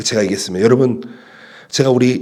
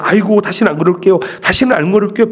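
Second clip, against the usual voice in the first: mock repentance; 3 semitones higher than usual. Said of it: "마음으로 그냥".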